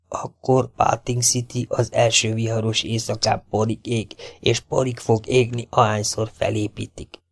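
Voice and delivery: soft-spoken outlaw warning of fire; menacing phantom. Acted. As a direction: keep it hushed and threatening. Phantom's voice in the dark.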